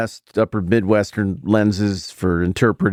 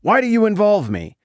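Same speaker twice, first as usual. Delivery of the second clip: sharp, high harsh "Woman"; Jesus snapping at his mother, harsh; harsh retort; 11 semitones higher than usual. Shown as a demonstration. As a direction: bark it at her. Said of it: "it sounds pretty harsh to be like".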